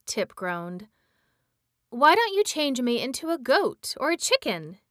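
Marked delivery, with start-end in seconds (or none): 1.9-4.8 anxious plea. Acted. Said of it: "he asked anxiously".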